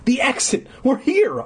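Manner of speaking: high, excited exclaiming; high excited cry at the exit; stammered relief. A narrator's reading. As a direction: gasp it out as you reach the door. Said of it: "I stammered".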